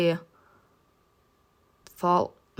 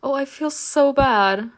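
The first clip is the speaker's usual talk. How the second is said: high, put-on tearful moan; fake crying; 6 semitones higher than usual. Narrator fakes distress to stall the groom, high tearful moan. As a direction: moan it out through pretend tears. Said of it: "started crying loudly".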